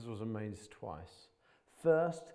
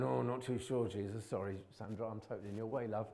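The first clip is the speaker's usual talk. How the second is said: mock doubtful disciple.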